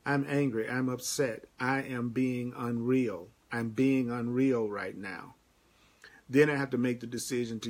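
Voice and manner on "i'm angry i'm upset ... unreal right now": slow self-admission. Shown as a demonstration. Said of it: "you're gonna tell yourself".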